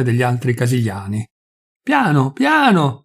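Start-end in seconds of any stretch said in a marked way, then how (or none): 1.8-3.0 mild, drawn-out call for care; repeated warning. A narrator's reading. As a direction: caution them, rising higher on the second word. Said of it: "ammoniva quasi ad ogni scalino". (ammonimento premuroso)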